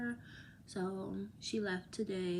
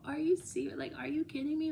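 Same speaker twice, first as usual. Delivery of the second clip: stunned, voice leaping up; disbelief; 7 semitones higher, faster than usual. Retold or imitated. On FaceTime to her friend, high incredulous disbelief.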